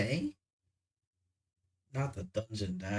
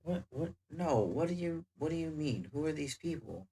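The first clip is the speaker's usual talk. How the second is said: confused; 5 semitones higher than usual. Acted. Confused, pressing questions.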